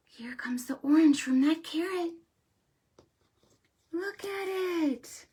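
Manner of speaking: put-on hushed, conspiratorial whisper to the kids; suspenseful whisper. Host whispering to little viewers as the carrot goes in. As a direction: whisper it like a secret.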